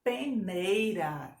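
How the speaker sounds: slow, drawn-out "Peneira"; syllable-by-syllable dictation. Shown as a demonstration. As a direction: stretch out each syllable of "Peneira". Teacher dictates word by syllables.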